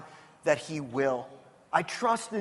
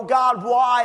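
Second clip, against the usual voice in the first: loud pleading cry of why; crying out to God; 5 dB louder than usual. Retold or imitated. Pastor retelling his own prayer, loud anguished cry. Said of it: "And I'll cry and I'll go".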